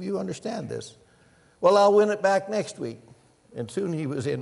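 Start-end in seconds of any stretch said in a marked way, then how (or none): 1.6-3.0 louder, higher mock gambler; gambler's excuse. Preacher voicing the gambler's excuse, louder and higher. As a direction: brush it off like a gambler sure of his luck. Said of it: "he would say".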